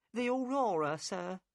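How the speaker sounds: the boatman's wife, worried and curt; upset wife. A narrator's reading. Narrator voices Mrs Smith.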